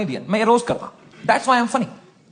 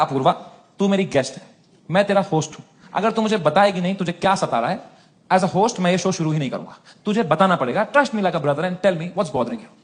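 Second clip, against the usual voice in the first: gentle coaxing; 4 semitones lower, 4 dB quieter than usual. Retold or imitated. Host coaxing his crying guest to open up, soft and earnest. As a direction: coax her like a caring brother.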